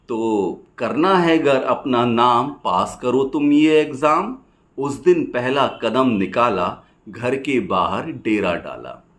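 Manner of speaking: rhythmic rhymed verse, pausing after each line; poem recitation. Acted. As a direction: recite it as lilting stage poetry.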